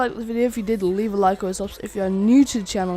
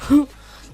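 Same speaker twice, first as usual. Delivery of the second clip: mock huff; 5 semitones higher, 10 dB louder than usual. Imitates cop giving up, walking off.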